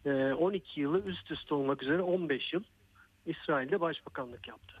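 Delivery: breathless after running; panting between words; out of breath. Real, not acted. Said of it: "biraz nefes nefese kaldım".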